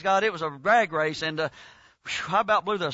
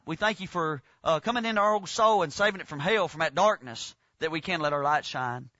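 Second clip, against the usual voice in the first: prayer. Acted. Leads a prayer.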